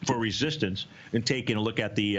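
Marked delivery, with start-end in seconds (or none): 1.1-2.2 talking around an ice cube; words round an ice cube; mouth full. Real, not acted. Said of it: "Sorry, I got an ice cube in my mouth".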